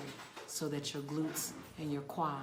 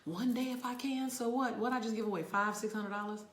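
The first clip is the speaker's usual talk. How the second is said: praying to God; 5 semitones higher than usual. Retold or imitated. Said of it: "And I kept saying".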